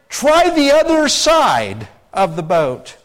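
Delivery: high, loud, drawn-out call. Retold or imitated. Jesus to fishermen in their boat, calling out. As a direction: call it slowly across a distance.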